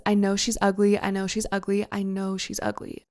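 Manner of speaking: echo fading in head. Retold or imitated. Wife replaying her husband's words in her head, fading echo. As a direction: let it fade like a thought echoing.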